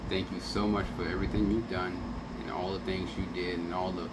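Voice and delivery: normal talking voice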